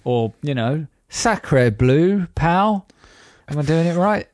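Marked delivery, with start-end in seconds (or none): 1.1-2.9 hammed-up French accent, higher on pal; mock French outrage. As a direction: fake French huff, pitched up at the end. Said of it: "Is that outrage in French?".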